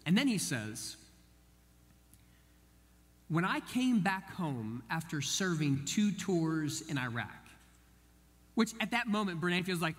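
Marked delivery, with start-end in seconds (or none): 3.3-7.3 slow, weighty, retold confession; sombre confession. Bank teller confiding in a customer about his tours, sombre.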